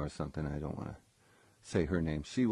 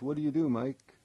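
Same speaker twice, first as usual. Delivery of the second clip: friendly question; 8 semitones higher, 4 dB louder than usual. Retold or imitated. Eddie voiced in retold story.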